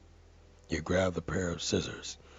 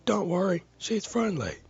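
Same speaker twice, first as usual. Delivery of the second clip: high, loud call from the porch; yelling; 7 dB louder than usual. A narrator's reading. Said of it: "their partner yells from the porch".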